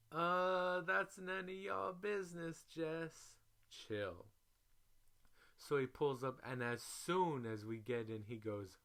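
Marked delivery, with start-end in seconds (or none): 0.1-4.3 sassy brush-off. Retold or imitated. Teller telling Jess to mind her business, high and sassy. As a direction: shut her down with attitude. Snapping back at nosy friend.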